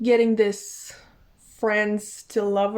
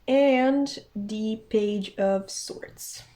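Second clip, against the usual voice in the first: slow words through a yawn; much slower than usual. Real, not acted. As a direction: say it mid-yawn. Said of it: "I'm so sorry for yawning".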